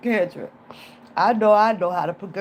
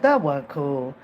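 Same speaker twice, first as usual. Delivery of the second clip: "That wasn't cool." said low and regretful; guilty lower take; 6 semitones lower, slower than usual. Retold or imitated. Scolding herself for faking sickness, low guilty "That wasn't cool.". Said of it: "I be saying that to myself".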